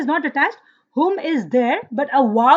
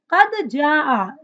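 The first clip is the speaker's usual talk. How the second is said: Quran recitation; much faster than usual. Shown as a demonstration. Teacher recites Quran fragment.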